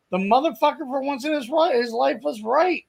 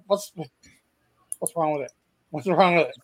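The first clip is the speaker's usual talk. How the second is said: put-on girl's complaint; 5 semitones lower than usual. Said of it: "she's like".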